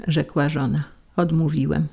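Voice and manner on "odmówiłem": plain reading voice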